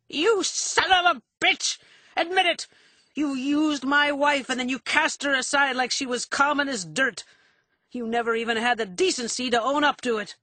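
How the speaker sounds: high, loud shriek of outrage; shrieking accusation. A narrator's reading. Drunken husband accusing his wife's lover, shrieking. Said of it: "Foley raised his voice to a shrieking pitch".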